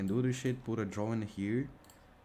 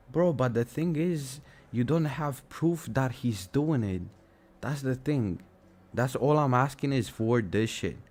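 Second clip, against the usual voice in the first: heated rant; 4 semitones higher, 4 dB louder than usual. Real, not acted.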